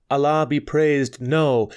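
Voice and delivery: a loud, high, quick protest; eager exclamation. A narrator's reading. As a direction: blurt it out eagerly. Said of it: "exclaimed Nana".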